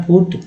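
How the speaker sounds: पुट with an "oo" vowel; U sound. Shown as a demonstration. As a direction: say पुट as in English "put". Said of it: "ऊ का उच्चारण हुआ".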